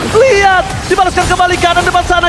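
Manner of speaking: excited play-by-play. Real, not acted. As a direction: call the fight with energy. Live play-by-play of teamfight.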